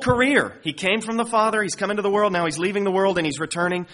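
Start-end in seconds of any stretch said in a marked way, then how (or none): 0.6-3.2 raised, ringing declaration of each phrase; emphatic proclamation. Acted. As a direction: proclaim it high and strong. Preacher stressing Jesus' words.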